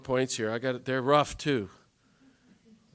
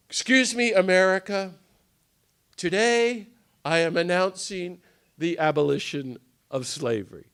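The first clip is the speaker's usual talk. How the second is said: louder, higher ringing announcement; proclaiming speech; 5 semitones higher, 6 dB louder than usual. Retold or imitated. Garrison announcing abolition to America, ringing proclamation. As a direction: declare it from the podium like Garrison. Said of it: "made this famous speech".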